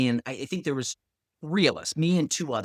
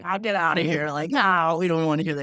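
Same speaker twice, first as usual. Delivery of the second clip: mock disbelief; 3 semitones higher, 4 dB louder than usual. Group scoffs at friend's claim.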